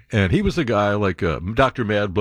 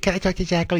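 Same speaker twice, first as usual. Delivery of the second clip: put-on little kid asking; 9 semitones higher, much faster than usual. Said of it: "I'm a little kid".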